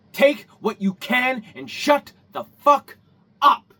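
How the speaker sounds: slow build to a loud shout on up; angry yell. Real, not acted. Vlogger yelling at nitpicky tradespeople, angry shout. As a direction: spit it out slowly, then blast. Ranting vlogger yells at critics.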